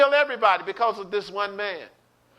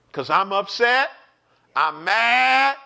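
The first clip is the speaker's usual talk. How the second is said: building to a loud, raised "mad"; mock vent, louder as it goes; acted anger; 2 semitones higher, 4 dB louder, slower than usual. Warning someone to leave them alone when angry, mock angry. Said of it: "at times when you get angry".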